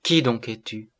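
a touch of sweet, awed fear; gentle terror. A narrator's reading. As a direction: ask with understated dread and wonder. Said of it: "avec un sentiment de douce terreur".

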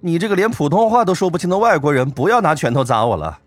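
high, laughing playful teasing; giggly teasing. Acted. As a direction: tease with a giggle. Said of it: "嘻嘻一笑".

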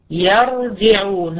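يرجعون drawn out very slowly, heavy ر; slow recitation. Shown as a demonstration. Teacher reciting the example word slowly. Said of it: "زي المثال بتاعي".

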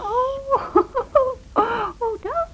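high, laughing surprise; amused laugh. Acted. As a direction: break into giggles at his hint.

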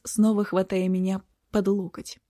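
plain reading voice

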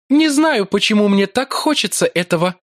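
high, languid and drawn out; languid drawl. A narrator's reading. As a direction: drawl it lazily, like a seductress. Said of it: "томно протянула она". (томно и протяжно)

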